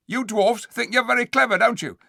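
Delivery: high, loud scheming ape voice; sly ape. Acted. The ape answering the dwarfs, sly and loud. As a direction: slick and sneering.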